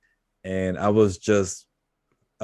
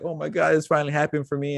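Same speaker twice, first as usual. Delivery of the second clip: mock crying contestant; 5 semitones higher, faster than usual. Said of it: "there's people crying".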